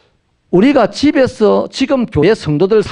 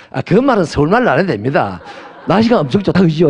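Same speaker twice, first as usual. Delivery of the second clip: laughing chat. Retold or imitated.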